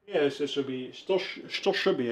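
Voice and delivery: talking around a wad of gum; words slightly gummed up while chewing. Real, not acted. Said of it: "I got gum in my mouth".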